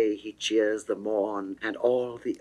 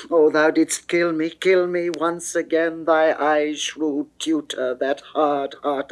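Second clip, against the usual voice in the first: impassioned; 5 semitones higher, 4 dB louder than usual. Acted. Venus's impassioned plea to Adonis.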